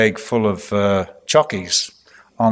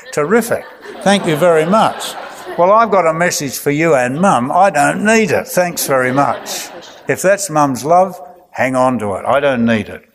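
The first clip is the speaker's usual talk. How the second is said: mock indignant kid; 2 semitones higher than usual. Imagined smacked child telling mum off, mock indignant. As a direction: play the sulky kid throwing thanks back at mum.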